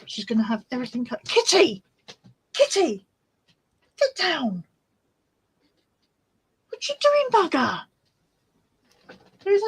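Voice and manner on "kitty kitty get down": calling the cat. Real, not acted. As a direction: call the cat off the bags.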